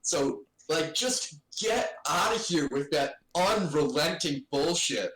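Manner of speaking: scolding old-timer lecture, lightly voiced; a hint of a stern elder scolding youth; prim disapproving aunt. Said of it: "I wanted to be like, "Back in my day, young man".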